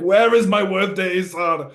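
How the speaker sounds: play-acted shout of an exasperated husband; mock farmer's scream. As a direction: imitate a farmer yelling at his wife. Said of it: "a farmer just screaming at his wife".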